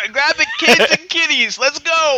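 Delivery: high, frantic evacuation call; mock panic. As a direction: yell it like fleeing a disaster. Mock panic fleeing the room.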